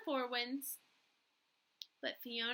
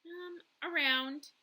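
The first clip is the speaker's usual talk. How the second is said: stiff; 4 semitones higher, 3 dB louder, slower than usual. Acted. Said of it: "I reply stiffly".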